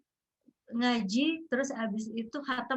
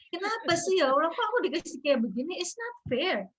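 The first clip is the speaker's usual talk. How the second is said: mock grumbling at God; 7 semitones higher than usual. Grieving mother replaying her complaints to Allah, mock grumbling. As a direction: nag at Allah like a wronged child.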